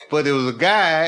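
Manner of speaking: laughing through the words; trying not to laugh at the guy. Real, not acted. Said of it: "it wasn't funny to me".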